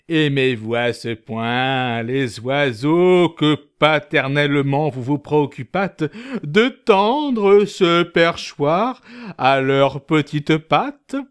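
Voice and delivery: slow, graceful and courtly. Acted. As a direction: speak with elegant grace.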